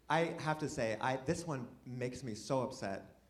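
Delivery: soft, upset confession played for laughs; hushed, halting, hammed-up hurt; mock emotional. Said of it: "I'm sorry to get emotional".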